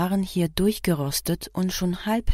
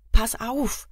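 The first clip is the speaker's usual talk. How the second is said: high, sharp warning call; alarmed cry; 6 semitones higher than usual. A narrator's reading. Passenger warning the driver about a cat, alarmed cry. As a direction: shout a sudden warning. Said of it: "rief Kira".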